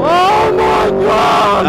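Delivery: high, drawn-out cry of delight; thrilled exclamation. Real, not acted. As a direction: let the speed wrench it out of you, slowly.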